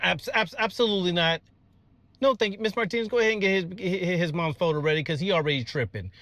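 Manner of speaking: high, rushed and alarmed, stammering no; flustered panic. Real, not acted. Teacher flustered by a preschooler's joint story, high alarmed refusal. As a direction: panic and shut it down fast.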